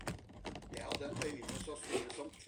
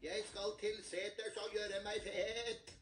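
slightly higher, less thin goat; a medium-sized goat speaking; middle goat voice; 4 semitones higher than usual. Acted. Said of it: "Den var ikke like fin i målet".

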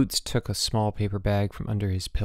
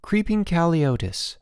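higher-pitched article readout; reading aloud; 7 semitones higher than usual. A narrator's reading. Boots reading fake article to George, reading aloud. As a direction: announce it like a headline. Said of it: "He began to read".

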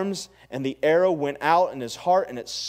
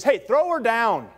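slow, loud, higher order; Jehu ordering the eunuchs to throw her, loud and slow; stern command; 5 semitones higher, 4 dB louder than usual. Acted. Bark the order down the street.

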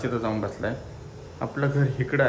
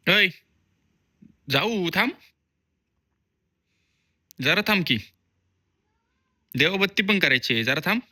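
coaxing; 7 semitones higher, 6 dB louder than usual. Real, not acted. Talking to the crying cat.

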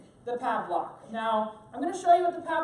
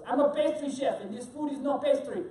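put-on French accent; Bruno. Pastry chef objecting to the food, bad French accent. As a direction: protest in a mock French chef's accent. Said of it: "This is my bad French accent".

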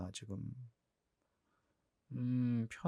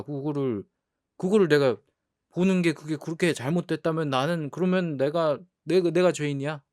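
rising, louder playful outrage; mock indignation; 4 semitones higher, 3 dB louder than usual. Real, not acted. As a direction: argue your innocence theatrically. Defending himself, mock outrage. (장난스러운 억울함)

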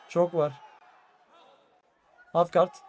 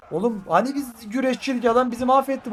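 frustrated yell; 5 semitones higher than usual. Real, not acted. Losing the fight, frustrated yelling.

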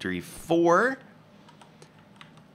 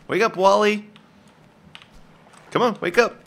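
calling out; 7 semitones higher, 4 dB louder than usual. Pretend. Calling to wake.

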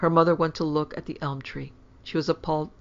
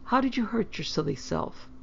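higher-pitched motherly chiding; mildly exasperated, pitched up; fond chiding; 7 semitones higher than usual. A narrator's reading. Mother questioning injured daughter, fond chiding.

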